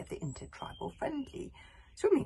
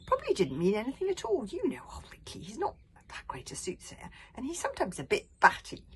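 Fishlegs voice; 5 semitones higher, 6 dB louder than usual. A narrator's reading. Fishlegs voiced, hugely happy mood.

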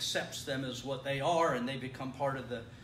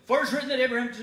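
mock slow reading; 8 semitones higher, 11 dB louder, much faster than usual. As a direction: fake drawn-out reading, much louder. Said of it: "no, I'm just kidding".

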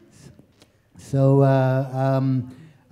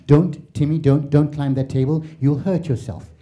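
patient European parent. Retold or imitated. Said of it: "They explain".

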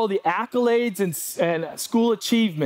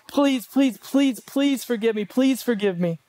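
high pleading please repeated; mock desperate pleading; begging; 7 semitones higher than usual. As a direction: beg for forgiveness, pitched well up. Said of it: "you'll beg and beg".

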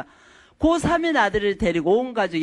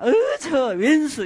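mock resentment; 5 semitones higher, slower than usual. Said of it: "마음에 안 들면".

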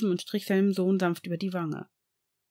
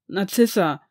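loud pleading call; 6 dB louder, slower than usual. Acted. Severus begs his wife for help, pleading call. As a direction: beg her for help. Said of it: "flehte Severus nun".

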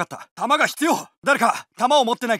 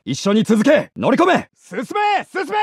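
squad orders given louder; louder take of the battle barks; louder callouts; 5 dB louder than usual. Acted. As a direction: call orders over the noise.

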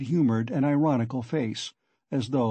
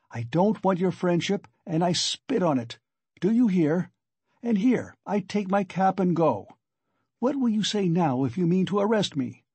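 higher-pitched, indignant challenge; angry defiance; 6 semitones higher than usual. Acted. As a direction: throw the offer back at him. Acted quarrel, Raskolnikov defiant.

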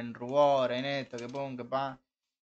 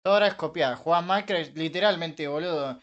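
exasperated complaint; 3 semitones higher, 5 dB louder than usual. Real, not acted. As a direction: vent at the copying accusations. Queja indignada. (queja indignada, alta y fuerte)

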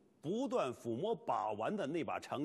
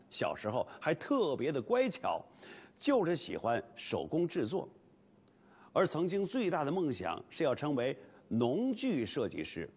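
lively documentary narration; 4 dB louder than usual. Acted.

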